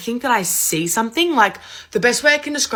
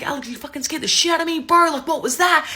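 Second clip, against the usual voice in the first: much higher-pitched retold outburst; mock indignant; 7 semitones higher than usual. Sister to brother after the scare, mock indignant.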